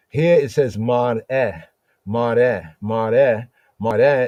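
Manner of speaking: mar'eh said slowly, repeated with a falling tone; repeating the Hebrew word. Shown as a demonstration. Teacher repeating mar'eh so students learn it. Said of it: "different word for pattern".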